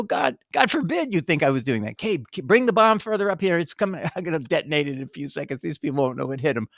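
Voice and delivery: lightly voiced sneaky bomber, half-laughing; a hint of a sly terrorist whispering plans; mock terrorist. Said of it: "It's like a terrorist".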